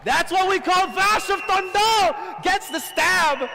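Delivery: screaming hype call; excited shout. Real, not acted. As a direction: yell it out, full hype. Caster shouting at the kill.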